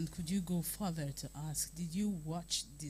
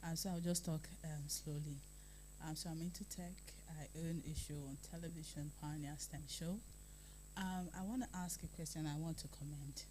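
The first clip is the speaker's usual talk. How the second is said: feeling sick; 4 dB quieter than usual. Real, not acted. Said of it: "Sorry, I'm a bit under the weather".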